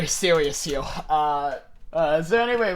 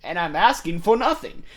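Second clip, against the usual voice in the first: radical Toby voice. Acted. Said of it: "my radical Toby voice for him".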